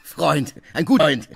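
sneering repetition with a laugh; mocking. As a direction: scoff at the word friend. Mocking the word friend. (höhnisch, spöttisch)

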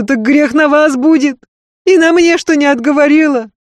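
earnest servant woman begging, high and loud; Marfa's pleading voice. Acted. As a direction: beg her mistress not to leave, pressing hard.

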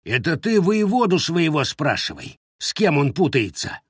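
a touch of sullen snarl; snapping back. Acted. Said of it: "огрызнулся Лукьян".

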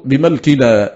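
بملكنا said bi-malkina; fatha on mim. Shown as a demonstration. Teacher showing Nafi's and Asim's reading, بملكنا with mim opened to a. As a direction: give the م in بملكنا an a vowel. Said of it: "بفتح الميم".

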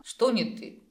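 puzzled surprise; surprised. A narrator's reading. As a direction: ask it, taken aback. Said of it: "удивлённо отозвалась Телеринель".

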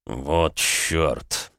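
low groaned curse; groaning curse. Acted. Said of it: "простонал Александр".

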